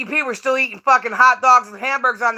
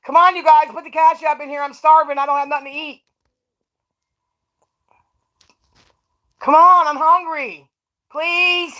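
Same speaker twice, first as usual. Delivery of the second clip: mock begging; 4 semitones higher than usual. Begging viewers for cash, mock.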